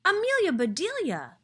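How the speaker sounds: loud, high shout of her name; yelling a name. A narrator's reading. Mister Rogers yelling at Amelia Bedelia in the water, loud high shout. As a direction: call her out sharply across the bank. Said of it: "yelled Mister Rogers".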